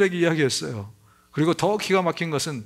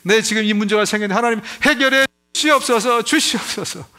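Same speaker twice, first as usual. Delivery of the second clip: lightly mocked desperate prayer, a little higher; crying out to God; 4 semitones higher, 3 dB louder than usual. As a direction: beg God like a crying baby, mildly. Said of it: "막 크라이 아웃해요". (새벽 기도에서 하나님께 울부짖는 신자를 가볍게 흉내 냄)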